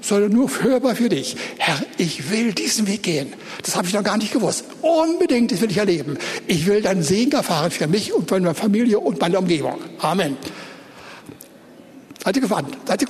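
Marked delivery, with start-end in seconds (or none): 1.6-10.3 earnest example prayer, audible but no shouting; model prayer spoken aloud. Shown as a demonstration. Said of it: "steht auf und sagt".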